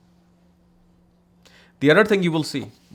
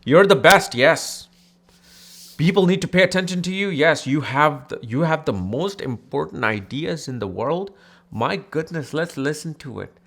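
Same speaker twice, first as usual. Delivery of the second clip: sarcastic flattery; 3 semitones higher, 3 dB louder than usual. Retold or imitated. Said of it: "Ketu's like".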